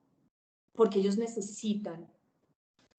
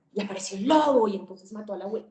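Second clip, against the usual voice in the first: louder, quick, dramatic fairy-tale telling; dramatic storytelling; 7 dB louder, much faster than usual. Shown as a demonstration. Telling Little Red Riding Hood to a child, dramatic and louder. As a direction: tell it like a thrilling bedtime story. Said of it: "Es así como yo quiero que hablen".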